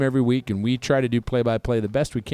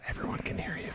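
whisper; 15 dB quieter, faster than usual. Real, not acted. Warning co-host mid-game.

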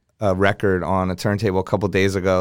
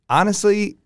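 fed up; 4 semitones higher than usual. Retold or imitated. Retold threat to club owner.

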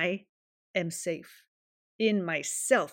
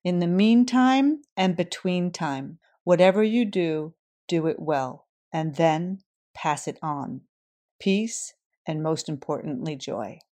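quoting a friend; 7 dB louder than usual. Retold or imitated. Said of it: "He would say".

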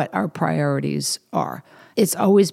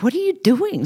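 a much higher, incredulous "what are you doing"; surprised question; 11 semitones higher than usual. Retold or imitated. Friend reacting to the dirt and stilettos, high incredulous surprise. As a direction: voice the friend's disbelief, pitched up high. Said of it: "She's like".

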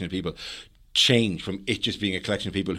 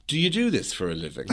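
laughing mock question; 6 semitones higher than usual. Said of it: "Hovis came up to me after and says".

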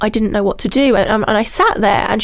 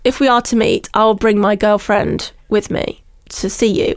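stiff lawyer's letter. Retold or imitated. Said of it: "he replied back to me like a lawyer's letter".

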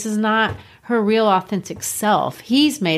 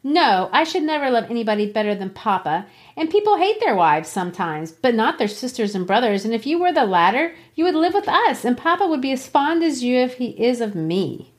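Kathy read aloud; 4 semitones higher, faster than usual. Acted. Reading Kathy's reply aloud.

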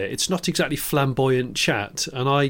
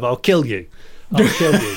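mock threat. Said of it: "uncanny impression of how I imagine Noel Edmonds".

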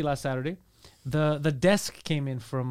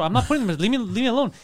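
frustrated retort, raised pitch; mildly exasperated, higher-pitched protest; 5 semitones higher, faster than usual. Retold or imitated. Builder fending off a nagging old neighbour, frustrated. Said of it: "very frustrated".

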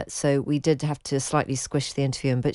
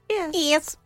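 posh yes; 13 semitones higher than usual. Retold or imitated. Repeating the Queen's posh yes.

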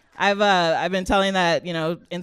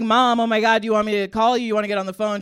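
shocked; 3 semitones higher, 5 dB louder, faster than usual. Retold or imitated. Daughter reacting to mom's news, shocked and louder. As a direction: blurt it out in surprise. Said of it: "And I'm shocked".

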